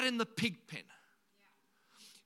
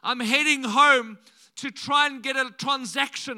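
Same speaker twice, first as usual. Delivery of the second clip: 1 rehearsed speech to dad; 3 semitones higher, 9 dB louder than usual. Retold or imitated. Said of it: "this little speech prepared".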